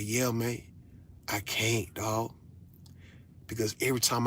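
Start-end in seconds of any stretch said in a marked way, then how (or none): 0.0-2.3 softer, shrugging "I can't"; mock sheepish refusal. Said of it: "And I'm like".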